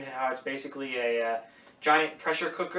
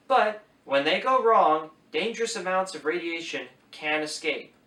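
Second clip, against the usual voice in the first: reading aloud. Shown as a demonstration. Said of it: "Direct quoting".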